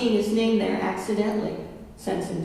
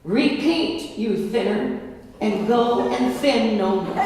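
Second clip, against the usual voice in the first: booming voice from sky. Acted. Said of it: "a mighty voice spoke".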